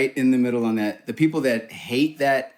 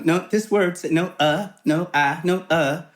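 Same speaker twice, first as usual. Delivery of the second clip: lightly mocked coach correcting vowels, pitched up; higher-voiced imitation of a fussy vowel drill; a hint of a correcting dialect coach; retold speech coach; 6 semitones higher than usual. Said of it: "a vocal coach, a speech coach".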